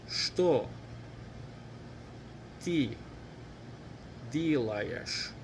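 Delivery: one word at a time, long pauses between. Shown as a demonstration. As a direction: leave room for learners to repeat each word. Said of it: "Let's say it together".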